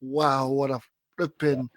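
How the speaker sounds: usual speaking voice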